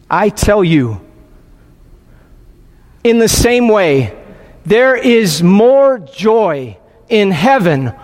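measured, emphatic Gospel reading; scripture reading. A narrator's reading. Preacher reads the lost sheep parable to worshippers, deliberate and declamatory. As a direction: read it out solemnly, phrase by phrase, building at the rejoicing.

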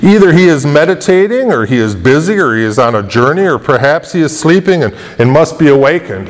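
swooping, sing-song taunt; mocking. Elijah listing excuses for their silent god, mocking. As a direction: tease with mock suggestions, pitch dipping. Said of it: "He was mocking them".

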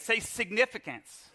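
grand emphatic "significance"; significant-sounding. Shown as a demonstration. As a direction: say "significance" like it matters. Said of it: "say it like it's something significant".

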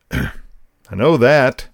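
each word slow and weighty, I know that; slow stern reply. Retold or imitated. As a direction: drag out I know that like a stern dad.

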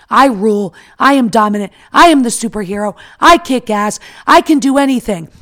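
loud, punchy, triumphant declaration; loud defiant boast. Pretend. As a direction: shout it like a superhero. Triumphant self-talk to the Hulk.

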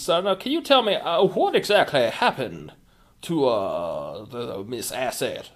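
slow southern lawyer drawl. Acted. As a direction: stretch the vowels like a Southern lawyer. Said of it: "He speaks with a long southern drawl".

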